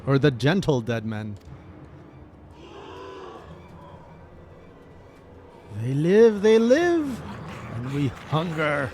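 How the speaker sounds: slow undead voice rising to a loud cry; hungry zombies. Acted. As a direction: moan it like risen dead men. Voices risen zombies in game.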